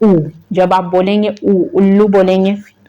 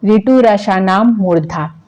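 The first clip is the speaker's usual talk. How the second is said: slow, measured recitation of the rule; teacher reciting a Sanskrit sutra; slower than usual. Shown as a demonstration. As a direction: recite it so it sticks. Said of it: "next सूत्र है आपका".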